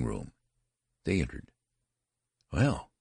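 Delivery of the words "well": mildly gasped word; a pitched-up, slight gasp. A narrator's reading. Anxious father entering the nursery, lightly gasping. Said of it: "gasped Mister Button".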